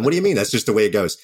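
high, loud, playfully clueless protest; mock-innocent pack mule. Overloaded producer as clueless pack mule, mock-innocent. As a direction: play the oblivious pack mule shrugging it off.

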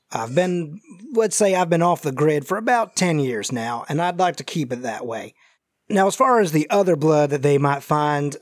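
lightly voiced folksy fugitive; injured Southern stranger. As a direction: explain guardedly as a Southern man in hiding.

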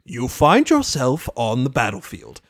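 low ominous narration; sinister game master. Retold or imitated. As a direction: intone the scene like a villain GM. Discord as GM narrating.

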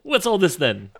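mock Cockney copper. Joins the Cockney bit.

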